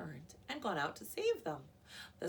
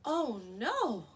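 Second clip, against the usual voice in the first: alarmed oh no; 6 semitones higher, 9 dB louder than usual. Acted. Narrator reacts to dogs drifting.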